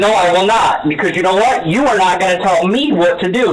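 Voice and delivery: firm, angry refusal. Real, not acted. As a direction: put him in his place, building in pitch at the end. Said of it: "can you please stop raising your voice".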